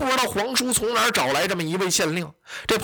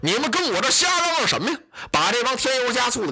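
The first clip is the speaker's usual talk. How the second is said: higher, sharp barked rebuke; angry shout; 5 semitones higher than usual. Acted. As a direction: silence the squabbling officials. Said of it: "张飞跟这帮火了".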